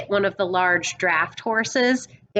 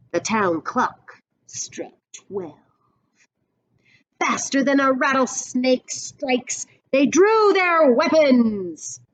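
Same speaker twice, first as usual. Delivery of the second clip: put-on storyteller reading a picture book to kids; read-aloud storybook voice; story narration; 3 semitones higher than usual. A narrator's reading. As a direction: paint the western showdown for the class.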